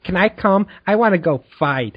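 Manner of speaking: lightly imitated eager interrupter; pestering keeper. Keeper interrupts the Dark Lady's quest, mock eager pestering. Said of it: "while she's doing that".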